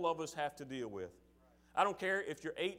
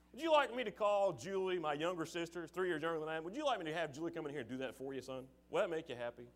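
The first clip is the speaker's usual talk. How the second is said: sarcastic dad; faster than usual. Retold or imitated. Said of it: "this sarcastic look on his face".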